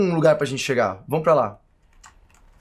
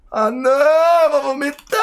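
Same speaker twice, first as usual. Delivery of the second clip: high loud slow wail; mock panic; 10 semitones higher, 5 dB louder, slower than usual. Real, not acted. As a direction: cry out in dizzy dismay. House spinning wildly. (pânico exagerado)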